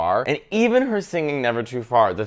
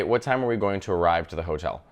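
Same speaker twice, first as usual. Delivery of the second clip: lower, softer, each word set apart; simplified careful version; 6 semitones lower, 6 dB quieter than usual. Shown as a demonstration. Speaking to a Thai tour guide, simple and careful. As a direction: say it plainly for a non-native listener. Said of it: "I would say".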